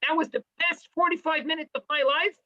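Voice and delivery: a touch of high gushing praise; mock rapture. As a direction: lightly play a thrilled student. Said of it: "if you didn't say after this shiur".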